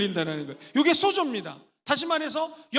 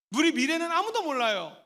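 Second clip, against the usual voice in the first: usual speaking voice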